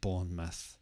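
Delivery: Bournemouth with the ending reduced to muth, stress first; the right Bournemouth; correct Bournemouth. Shown as a demonstration. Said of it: "the stress is on the first part".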